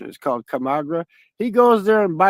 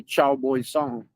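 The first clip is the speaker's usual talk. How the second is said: put-on "Chow boy song" said slowly, each word drawn out; slow demo pronunciation; 3 semitones lower, much slower than usual. Shown as a demonstration. Teaching a friend the Vietnamese greeting, slow careful pronunciation. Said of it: "You say".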